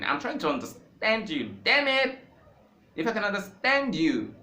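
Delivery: sudden high, loud cry of frustration; frustrated outburst. Real, not acted. To language learners, an exasperated shout. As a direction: burst out, fed up.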